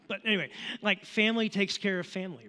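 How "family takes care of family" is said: a lightly done gravel-free Dom Toretto impression, a bit higher and louder; quoting Dom from Fast and Furious with a light put-on accent. Preacher quoting Dom to the congregation, lightly imitated accent. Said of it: "that's the best accent I have of, of Dom".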